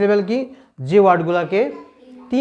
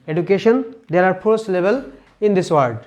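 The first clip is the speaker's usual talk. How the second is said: slow teaching voice; much slower than usual. Shown as a demonstration. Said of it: "কয়টা syllable আছে দেখো তো".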